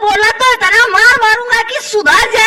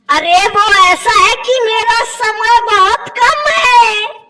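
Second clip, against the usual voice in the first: mock crying. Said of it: "रोना मत".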